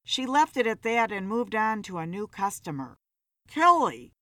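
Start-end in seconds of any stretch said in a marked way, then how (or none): 3.5-4.1 louder call across the bar. A narrator's reading. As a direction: call her name over the noise. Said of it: "Philip called out to her".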